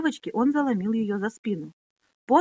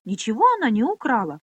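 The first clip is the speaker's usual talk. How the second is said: loud quick denial; blurted denial; 3 semitones higher, 5 dB louder than usual. Acted. Boy blurts out Minolli's defence, loud. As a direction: fire it back at once. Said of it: "выпалил Пьемур".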